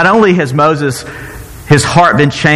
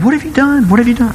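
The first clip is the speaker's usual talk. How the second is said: Moses confronting Aaron; 9 semitones higher, faster than usual. Retold or imitated. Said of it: "He goes to Aaron".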